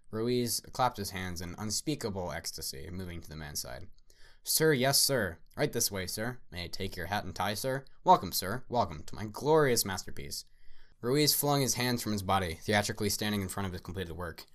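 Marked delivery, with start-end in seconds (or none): 4.4-10.4 loud, fawning welcome; eager host. Acted. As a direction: gush over him like an eager showman. Ruiz eagerly welcomes the critic.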